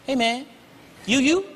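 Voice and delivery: high, excited mock fan; a gushing fan pointing at a celebrity; starstruck fan. Fan spotting Chris in the store, high excited voice. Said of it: "looking at me like".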